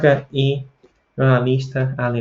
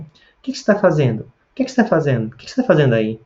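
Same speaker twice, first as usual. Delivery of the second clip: casual question melody from Pará, Brazil; northern Brazilian accent; 3 semitones higher than usual. Shown as a demonstration. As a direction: ask it as they do in northern Brazil. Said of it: "Talvez na minha região". (sotaque do Pará)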